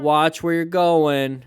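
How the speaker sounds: slow, loud, drawn-out yell; mock yell. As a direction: shout it back slowly. Echoing the shouting pedestrian.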